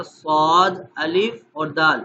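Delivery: "صاد" said loud with a clear alif, no w sound; spelled correctly. Shown as a demonstration. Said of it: "کیسے پڑھا جائے گا؟".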